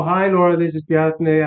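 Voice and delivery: a formal, unsure hello; stiff greeting. Shown as a demonstration. Caller greeting the receptionist, a touch hesitant and formal. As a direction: read it like a stranger cold-calling. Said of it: "they smell".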